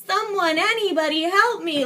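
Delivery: a hint of calling out for anyone; mock cry for help. Showing a useless call out the window, mock general plea. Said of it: "if you open up the window and you're like".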